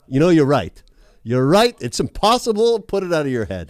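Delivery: imagined coach. Pretend. Imagined coach reassuring the boys.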